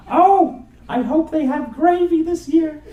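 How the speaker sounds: put-on high, anxious Queens accent mom; worried mother in a thick Queens accent. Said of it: "say in her Queens accent".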